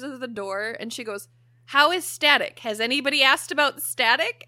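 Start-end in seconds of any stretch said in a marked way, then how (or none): 1.7-4.4 worried friend. Retold or imitated. Friend worried about the cat.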